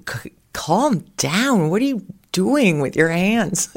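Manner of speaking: imitated exasperated relatives, swooping pitch; mock exasperation. Parents teasing her about her hand gestures, mock exasperation. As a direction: draw out a mock, sing-song plea to calm down.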